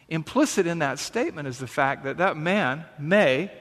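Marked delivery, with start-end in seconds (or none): 3.0-3.5 "may" set apart with light emphasis; "may" gently stressed, then a pause. Shown as a demonstration. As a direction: lean a little on the word "may". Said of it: "emphasis on the word may".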